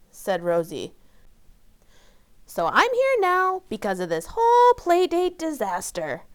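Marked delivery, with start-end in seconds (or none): 2.4-6.2 put-on higher, louder upset little girl shout; Amy shouting about the playdate disaster. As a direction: cry out the disaster at full volume. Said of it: "shouted Amy".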